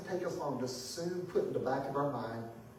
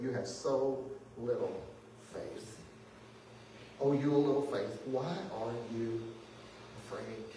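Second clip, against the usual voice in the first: gentle rebuke; 4 semitones lower, 5 dB quieter than usual. Retold or imitated. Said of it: "the way the New Living Translation says that".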